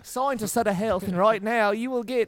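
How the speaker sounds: put-on Geico gecko Australian accent; chirpy Aussie ad pitch; salamander. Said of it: "oh, that was an impression, huh?".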